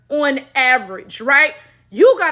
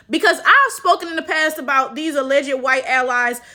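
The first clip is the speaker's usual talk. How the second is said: ordinary talk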